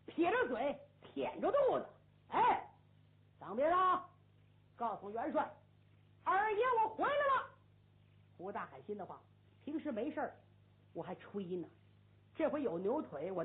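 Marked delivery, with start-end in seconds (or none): 2.3-7.5 high, loud swaggering shout from horseback; swaggering call. Acted. Hu Dahai shouts to the gate guard, swaggering and loud. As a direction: bellow it out like a cocky general.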